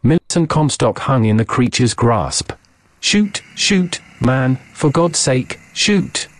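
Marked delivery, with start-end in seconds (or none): 3.0-6.3 high, strained, frantic whisper; a panicked plea, barely voiced; terrified whisper-scream. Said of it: "I screamed, but only a whisper".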